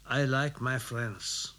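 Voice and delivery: slow, dry English reply; laconic Englishman. Acted. The well-travelled Englishman answers laconically, slow and dry. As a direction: say it dryly and slowly. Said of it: "das gleiche lakonische".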